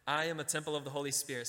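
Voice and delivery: brisk model line before the congregation repeats; quick example. Shown as a demonstration. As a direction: rattle it off as a prompt. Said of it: "Say that with me".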